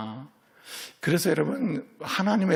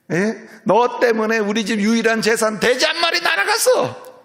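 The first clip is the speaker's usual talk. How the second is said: higher, slowed, scolding a son who lied; angry scolding father; 8 semitones higher, 4 dB louder than usual. Pretend. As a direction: play the furious father ranting. Imagined father scolding angrily. (꾸짖는 화난 아버지처럼 높고 느리게)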